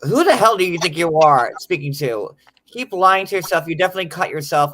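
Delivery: loud, indignant mock tirade; retold angry rant. Retelling what the woman told her, loud angry mimicry. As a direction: throw her words back, loud and scornful. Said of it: "she goes to me".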